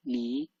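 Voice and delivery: Li with a rising pitch; second tone. Shown as a demonstration. Teacher showing learners second tone, rising Li. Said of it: "second tone".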